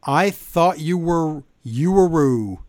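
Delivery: slow, lightly Canadian accent mocking Trish; a touch of Canadian accent, slowed and teasing. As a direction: drag it out in a hint of a Canadian accent. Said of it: "So in her Canadian voice".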